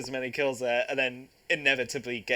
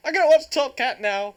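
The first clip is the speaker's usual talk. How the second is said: mock excited declaration; 9 semitones higher, 8 dB louder than usual.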